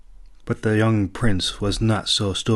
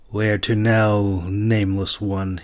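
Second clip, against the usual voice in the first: sour; slower than usual. Acted. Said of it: "he demanded sourly".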